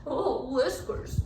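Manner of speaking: slow, sulky cat grumble; grumbling soggy cat. A narrator's reading. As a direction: grumble it out, wet and miserable. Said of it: "grumbled the very soggy cat".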